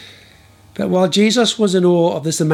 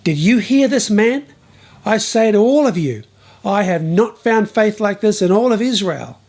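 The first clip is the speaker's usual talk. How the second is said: raised, higher proclamation; Jesus proclaims to the crowd, raised and high; proclaiming to the crowd; 5 semitones higher than usual. Acted. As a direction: announce it to the whole crowd. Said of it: "turned to the crowd and proclaimed".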